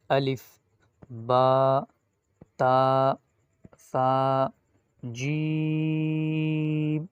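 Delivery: loud, drawn-out Arabic letters, jeem held long; teacher chanting the alphabet for repetition; Arabic letter names. Shown as a demonstration. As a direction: call out "الف، با، تا، ثا، جیم" with full Arabic vowels. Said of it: "اس طرح آپ نے پڑھنا ہے".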